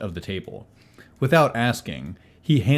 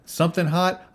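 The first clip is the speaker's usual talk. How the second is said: jovial innkeeper; 10 semitones higher than usual. Acted. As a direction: fuss over guests like an overeager innkeeper. Tony repeats the order.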